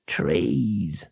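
low whispered reply from the dark; unvoiced low whisper; voice from above. A narrator's reading. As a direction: breathe the word down from high in the trees. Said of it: "said a voice out of the darkness high above".

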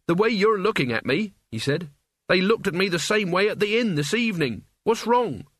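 uneasy youth, rising to worry; lightly voiced young Mort. Mort asks the others why they stare, worried.

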